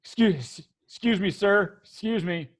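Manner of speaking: mildly timid, stumbling address; hesitant, deferential guard; nervous guard. Acted. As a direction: falter as if avoiding the boss's eye. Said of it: "they both look at the ground".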